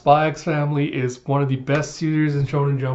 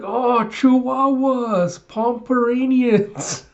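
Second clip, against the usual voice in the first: high, slow, drawn-out cooing; dreamy squeal of delight; 10 semitones higher, much slower than usual. Retold or imitated. Little girl marvels at small dogs, drawn-out delighted squeal. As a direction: swoon over each breed name.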